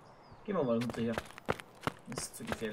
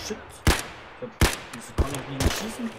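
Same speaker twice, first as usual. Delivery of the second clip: startled; 9 dB louder, faster than usual. Real, not acted. Gun jams in fight.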